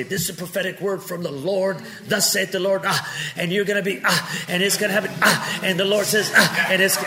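lightly done pulpit prophet parody; mock prophet. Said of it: "I don't say".

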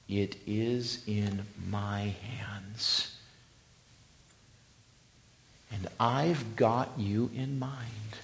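slow, intimate whisper. Acted. Preacher whispering God's words to the church. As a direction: breathe it as God's promise.

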